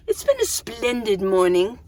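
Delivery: lightly put-on English accent. Talking to viewers about the morning, playful English accent. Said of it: "Why am I talking like that?".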